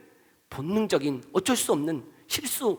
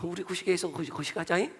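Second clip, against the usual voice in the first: softer dialect with a drawn-on ending; regional Korean dialect; 7 dB quieter than usual. Shown as a demonstration. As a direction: imitate locals talking among themselves in dialect. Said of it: "우리끼리는 다 알아들어요". (사투리로 우리끼리 말하듯)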